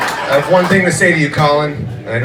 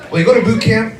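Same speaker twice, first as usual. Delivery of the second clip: higher, sweet salesy recruiter voice; upbeat salesy recruiter pitch; 3 semitones higher than usual. Acted. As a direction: sell it like a cute brochure.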